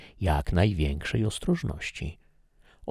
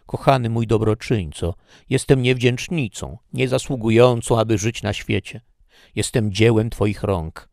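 higher, louder, effusive apology; Laura pleading; 4 semitones higher, 5 dB louder than usual. Acted. Laura flatters her uncle begging forgiveness, effusively. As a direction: gush contrition to win him back.

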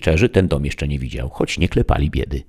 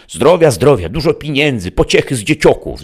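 high, loud rustic granny screech; screeching old woman; 11 semitones higher, 7 dB louder than usual. A narrator's reading. Grandma wishing her son health and money, screeched. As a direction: squawk the wishes high and forceful. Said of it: "zaskrzeczała babina".

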